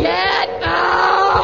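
loud, harsh repeat of the order; angry shout. Acted. Lauren yelling again at her mother. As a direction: shove her out with the voice.

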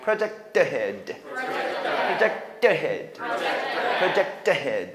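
"project head" slowly joined as projec-te-head; slow model "project head", t sounded; linked pronunciation. Shown as a demonstration. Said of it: "여는".

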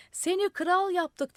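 high, loud, drawn-out call; crowd shout. A narrator's reading. Crowd telling the madman he is king, shouting. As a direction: shout it up slowly. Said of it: "diye bağırdılar".

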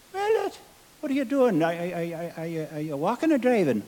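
a hint of a puzzled Irish barman; Irish bartender. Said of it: "Irish bartender in joke".

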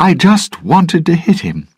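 high, loud shout across the bar. Acted. Elizabeth calling to the pirates after the bottle, loud shout. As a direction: call it out over the crowd. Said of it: "she shouted to the pirates".

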